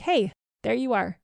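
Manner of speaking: light, friendly greeting as if to a friend; really friendly voice. Shown as a demonstration. Greeting her own reflection in the mirror, friendly and kind. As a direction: greet yourself like an old friend. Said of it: "in a really friendly voice".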